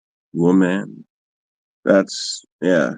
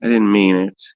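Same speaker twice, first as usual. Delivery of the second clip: nice apology. Pretend. Friend's imagined excuse to the police, mock-nice apology. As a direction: pretend to sweetly say sorry. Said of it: "nicely apologize and say".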